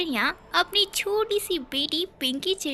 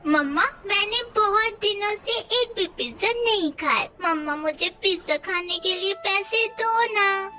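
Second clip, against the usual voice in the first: put-on whiny child; 3 semitones higher than usual. Child begging for pizza.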